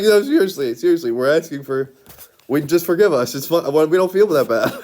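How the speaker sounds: half-laughing, urge them to give in; playfully exasperated begging; mock pleading. Acting out a plea for forgiveness.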